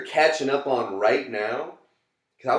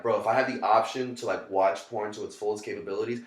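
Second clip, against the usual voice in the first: mock pep talk; 3 semitones higher, 9 dB louder than usual. Drunk self-talk pep speech, mock grand.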